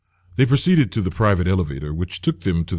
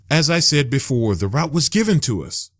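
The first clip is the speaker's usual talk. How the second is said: annoyed; 7 semitones higher than usual. A narrator's reading. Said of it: "said with annoyance".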